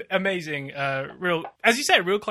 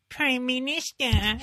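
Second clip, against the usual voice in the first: a slow, higher, lightly put-on reporter's call; journalist impression; 6 semitones higher, slower than usual. Mocking the press conference, a lightly voiced journalist calling slowly. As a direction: call out to the PM like a press-pack journalist, hammed up a little. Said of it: "I'll do my best journalist impression".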